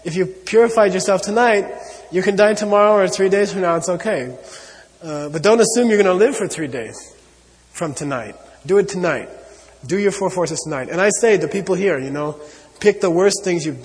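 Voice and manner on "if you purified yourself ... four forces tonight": emphatic urging. Retold or imitated. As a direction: press the point home with urgency. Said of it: "Tsongkhapa says".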